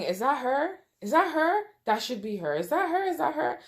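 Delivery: a worried mother straining to see her daughter; lightly voiced mother, hopeful and anxious; anxious mom. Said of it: "I remember hearing my mom's voice saying".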